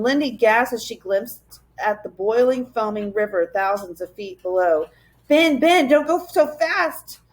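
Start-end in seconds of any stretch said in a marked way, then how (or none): 5.3-7.2 frightened cry. A narrator's reading. Lindy on the bridge crying to Ben, frightened. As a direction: call out to him in fear. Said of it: "she cried".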